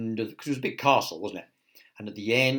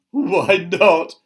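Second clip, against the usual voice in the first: loud, raised playful chuckle voice; chuckled; 7 semitones higher, 13 dB louder than usual. A narrator's reading. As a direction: ask it with acted amusement. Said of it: "she chuckled".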